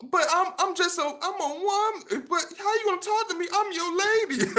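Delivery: very high falsetto mock woman; mock lady voice. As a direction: squeak it up high like an offended lady. Mocking a woman's complaint.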